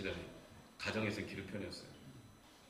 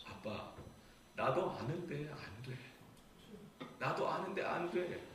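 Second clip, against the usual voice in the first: put-on slow, mildly plaintive child's plea; tearful, imitated; 4 semitones higher, 4 dB quieter, slower than usual. Son pleads to dad that he cannot manage, imitated tearfulness. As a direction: imitate a son on the verge of tears, slowly. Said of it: "그 울먹거리는 말이".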